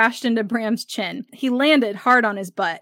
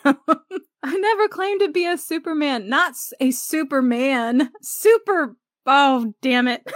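much higher, laughing, overplayed stumble on "Super"; laughing replay of Jack; 4 semitones higher than usual. Shown as a demonstration. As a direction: relive the favorite line giggling. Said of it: "one of my favorite scenes".

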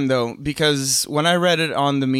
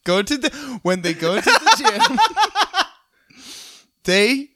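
laughing; 9 semitones higher than usual. Real, not acted. Telling joke through laughter.

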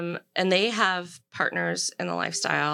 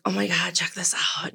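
retold excited whisper to a friend. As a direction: whisper it like sharing a secret find.

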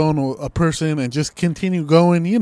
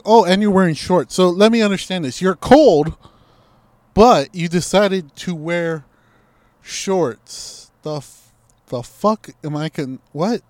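raised, louder mock incredulity that fades into fake confusion; mocking disbelief; 2 semitones higher, 3 dB louder than usual. Mocking a cold guy for wearing shorts, incredulous then fake confused. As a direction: scoff at him, then play dumb.

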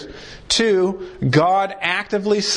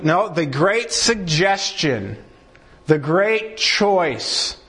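sarcastic correction; slower than usual. Shown as a demonstration.

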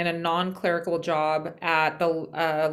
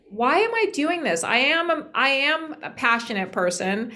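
higher, emphatic declaration; impassioned self-assertion; 5 semitones higher, 3 dB louder than usual. Retold or imitated. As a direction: retell a passionate stand, pitch lifted. Retells defiant declaration of passion.

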